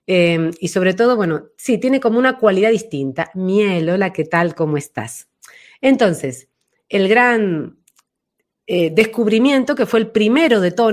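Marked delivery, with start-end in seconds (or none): 3.4-5.3 front lip resonance. Shown as a demonstration. Voice teacher showing the viewers the front resonance station. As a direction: speak from the front of the mouth like "Miel". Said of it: "suave, dulce, más aguda".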